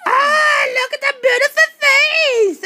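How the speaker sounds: high, loud cry of delight. Real, not acted. Host admiring the dinosaur's face, delighted cry. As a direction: gush over the face.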